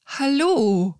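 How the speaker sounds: small whispered hallo; timid whisper. Retold or imitated. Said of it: "Und ich so".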